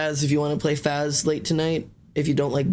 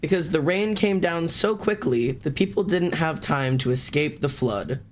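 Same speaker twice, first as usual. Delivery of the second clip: slow classroom read-aloud; teacher reading an example sentence; slower than usual. Pretend. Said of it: "I'm doing my teacher voice".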